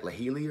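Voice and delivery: Lahili, guessed as a three-syllable name; tentative joke pronunciation of Lahili; mock Irish pronunciation. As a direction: say Lahili as if unsure, la-HEE-lee. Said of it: "it's actually pronounced, like".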